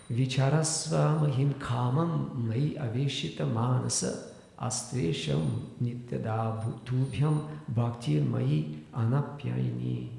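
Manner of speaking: slow, measured scriptural recitation; Sanskrit verse recitation. Real, not acted. Teacher reciting next verse sixty-one to listeners, slow recitation. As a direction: recite the verse slowly, drawing out the syllables.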